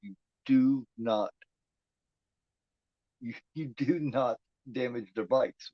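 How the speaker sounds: "do" hit slow and firm, each word weighed; stress on do not. Real, not acted. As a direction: lean hard on "do not", slowly. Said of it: "That's the one thing you do not do".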